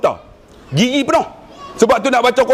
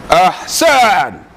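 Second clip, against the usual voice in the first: drawn-out, emphatic approval; blind sheikh's praise. Retold or imitated. Blind sheikh praising his pupil, emphatic and drawn out. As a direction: pronounce the praise with a long falling vowel. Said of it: "Ahsan dia buat macam ni".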